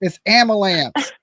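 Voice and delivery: "ambulance" said as "ambu-lamps", slowed down; country ambulance. Real, not acted. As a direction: drawl out "ambulance" with a lamp sound at the end. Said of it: "I get the hardest one when I say ambulance".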